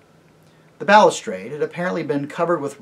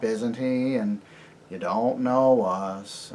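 politely stonewall the stranger; wary Puddleglum; 7 dB louder than usual. Acted. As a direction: Puddleglum refusing to share their business. Puddleglum character voice.

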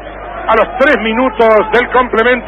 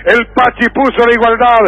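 excited goal replay; 3 semitones higher than usual. Acted.

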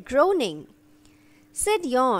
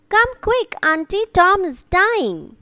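urgent; 6 semitones higher, 4 dB louder than usual. A narrator's reading. Sid runs to fetch Aunt.

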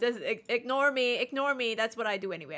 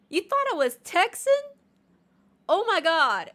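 high, loud disbelief; loud, high-pitched astonishment; incredulous; 9 semitones higher, 9 dB louder than usual. Real, not acted. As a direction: exclaim in amused shock. Disbelief at chat's guess.

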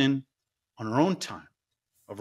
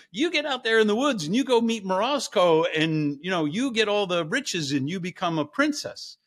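pushy stepmom; 4 semitones higher than usual. Acted. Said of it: "So she's like".

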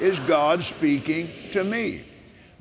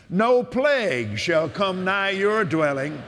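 preaching at full force; 3 semitones higher than usual. Acted. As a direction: shout the promise like from the pulpit.

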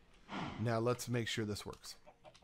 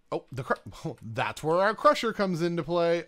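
laughing realization; 5 semitones higher, 8 dB louder than usual. Real, not acted.

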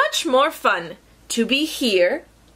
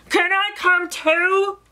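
higher, pleading storybook animal; hopeful rhino; 6 semitones higher than usual. Acted. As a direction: ask hopefully, lifting the pitch. Rhino asks to join.

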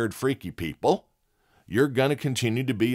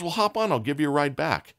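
FedEx lady voice; 6 semitones higher than usual. Retold or imitated. FedEx lady offers a ride.

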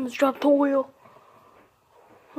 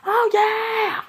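whisper-yelled cheer, much higher; stage whisper; 9 semitones higher, 4 dB louder than usual. Real, not acted. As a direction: cheer it in a hushed yell. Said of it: "I don't know why I'm yelling, but more like whisper yelling".

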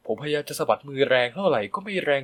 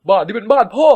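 higher, louder, rising on พ่อ; angry shout; 7 semitones higher, 9 dB louder than usual. A narrator's reading. Son shouting at stepmother that it's dad's house. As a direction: throw บ้านนี้เป็นบ้านพ่อ at her loudly.

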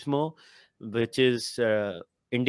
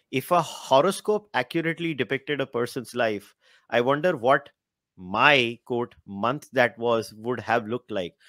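reading aloud. Real, not acted. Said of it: "ये paragraph मुझे पढ़ना है".

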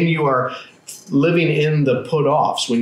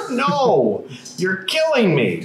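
laughing protest; 6 semitones higher, slower than usual. Real, not acted. Laughing refusal to pick verses.

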